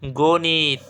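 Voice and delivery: গণিত drawn out as "go-niiit"; model pronunciation. Shown as a demonstration. Teacher showing students the correct sound, careful model pronunciation. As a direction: say গণিত slowly as "go-nit", stretching both syllables. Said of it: "সঠিক উচ্চারণ কী হবে?".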